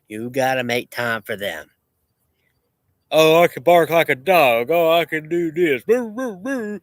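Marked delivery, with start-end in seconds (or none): 3.1-5.8 high, loud mocking boast; mock a show-off bragging; mocking brag. Mocking a bragger who claims he can bark like a dog. 5.8-6.8 high barking imitation; mock dog bark. Imitating a dog to mock people who brag.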